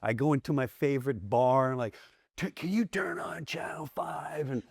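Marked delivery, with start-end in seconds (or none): 2.4-4.5 hushed unvoiced whisper, pitched up; whispered request. Asking the bartender in a whisper. Asks bartender to switch channel.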